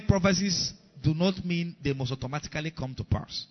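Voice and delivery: emphasis on the word "automatically"; teaching point with "automatically" stressed. Real, not acted. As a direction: lean on "automatically" to make it the key word. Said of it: "Emphasis on the word automatic".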